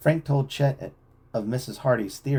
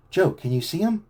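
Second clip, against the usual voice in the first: louder call, higher pitch; calling back; 8 semitones higher, 4 dB louder than usual. A narrator's reading. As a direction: call over the shoulder. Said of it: "Frank called back".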